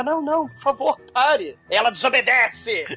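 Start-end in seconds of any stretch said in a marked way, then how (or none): 0.0-1.6 Wonka asking her to stop, "não" a touch higher; Wonka pleading. Retold or imitated. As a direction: plead with the girl as Wonka, lightly voiced. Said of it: "não é assim, Douglas".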